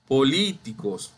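po-LÍ-ticos, second syllable stressed; correct stress on LI. Shown as a demonstration. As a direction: model "políticos" with the accent on LÍ. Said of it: "es la li".

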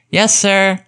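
put-on high-pitched voice for eager kids; children's chorus. A narrator's reading. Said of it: "came the chorus".

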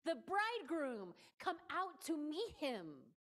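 loud, high proclamation, slowing at the end; outcry. Acted. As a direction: call it out like a midnight herald. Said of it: "an outcry happened".

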